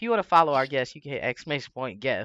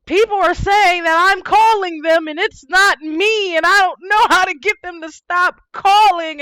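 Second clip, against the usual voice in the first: high, loud frantic caller voice; panicked caller; 12 dB louder than usual. Retold or imitated.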